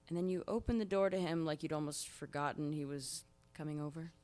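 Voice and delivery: lightly British-flavoured dry reading; Fleabag monologue reading. Acted. Actress reads the Fleabag opening monologue to her host, dry and wry. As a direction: deliver the opening monologue wryly to the listener. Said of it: "hear your take on Fleabag".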